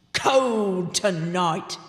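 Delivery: slow, low goblin king voice; a regal goblin drawing out the cold. A narrator's reading. Goblin King to Grubb, slow and low. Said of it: "said the king".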